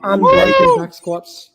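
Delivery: high, loud cheering shout; excited cheer. Real, not acted. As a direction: yell it out in delight. Athlete finishes unbroken set.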